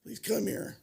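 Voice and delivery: high, cracking plea to the counselor; half-crying call for help, retold; tearful plea. Man to his counselor, begging through tears. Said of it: "and I started crying".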